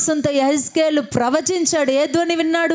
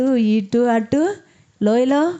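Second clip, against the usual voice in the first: drawn out slowly; much slower than usual. Shown as a demonstration. Pastor to congregation, dwelling on the valley, slowly drawn. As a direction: stretch ఇటు అటు very slowly, rising on అటు.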